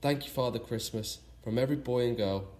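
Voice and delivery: sing-song reading of a rhyme; rhyming verse. A narrator's reading. Narrator closing the story with a fond rhyme, in lilting verse. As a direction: read the verse with a lilting beat.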